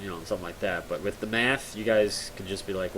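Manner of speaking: ordinary delivery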